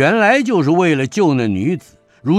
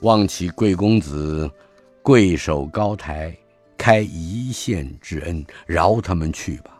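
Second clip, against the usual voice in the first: lower, humble and courteous; officer humbly asking mercy, lower pitch; polite appeasing plea; 3 semitones lower than usual. Acted. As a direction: soothe him with a smiling bow in the voice. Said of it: "抱拳陪笑道".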